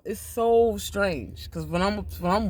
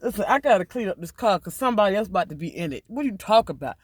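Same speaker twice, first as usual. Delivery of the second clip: sassy dismissal. Retold or imitated. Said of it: "Or you could take that and say".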